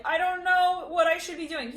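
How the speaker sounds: high, drawn-out mock helpless wail; helpless dithering. Someone shrunk on the stage, helpless dithering.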